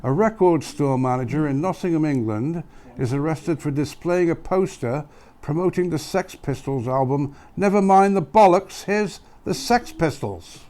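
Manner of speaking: put-on East Midlands English accent, read out; Nottingham accent. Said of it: "I had to do that in the Nottingham accent".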